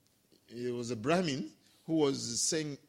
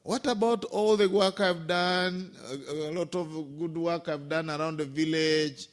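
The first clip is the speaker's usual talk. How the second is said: pleading. Retold or imitated. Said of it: "I start pleading".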